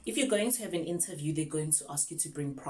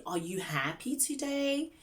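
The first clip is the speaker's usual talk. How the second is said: high, slow, cheery question; excited teacher; 9 semitones higher than usual. Shown as a demonstration. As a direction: ask a small child with eager interest. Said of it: "you need to sound excited".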